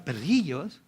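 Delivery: a touch of fondness on "Perrillos"; affectionate. Shown as a demonstration. Jesus calling her little dog, lightly tender. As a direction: say "Perrillos" gently, like a pet name. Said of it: "lo dice así como con cariño".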